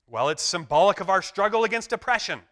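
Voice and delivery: a touch of pompous activist; earnest activist. Retold or imitated. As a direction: say it with mock earnestness. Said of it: "character replies".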